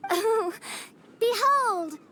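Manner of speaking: lightly theatrical prophetess princess; grand proclamation. Acted. Princess announces her prophesied world to her people, grand proclamation. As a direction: declaim it like visiting royalty.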